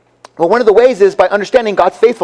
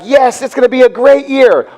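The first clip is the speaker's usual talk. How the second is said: higher, upbeat mock anticipation; retold excited optimism; 5 semitones higher than usual. Congregation recalling hopes at the start of the year, excited. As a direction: play back everyone's eager hope.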